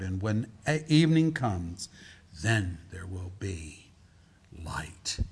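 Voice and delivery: measured proclamation fading to a hush; solemn scripture reading. Acted. Reads prophecy slowly, dropping to hush.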